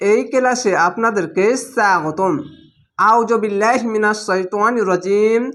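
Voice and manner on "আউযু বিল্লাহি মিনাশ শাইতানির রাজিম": slow, measured recitation voice; Quran recitation. Shown as a demonstration. Teacher opening a Quran class, slow recitation. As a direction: recite it slowly and with reverence.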